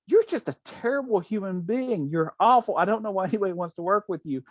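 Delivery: a hint of an angry shout; mock angry scream. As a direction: retell a temper tantrum lightly. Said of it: "loses his temper and screams at her".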